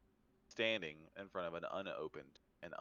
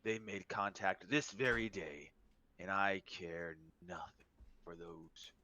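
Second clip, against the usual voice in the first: game master voicing a dragon, menacing; threatening dragon.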